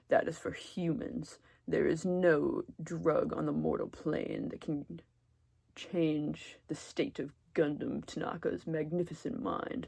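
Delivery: slow, lofty mock-dramatic pronouncement; lightly voiced grandiose Gundam. Gundam scoffing at weed, slow and grand. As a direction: intone it like a self-styled overlord. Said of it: "he'd be like".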